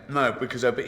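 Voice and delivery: talking through food; mock speaking with her mouth full. Mocking a fat woman talking while eating. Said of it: "she was eating".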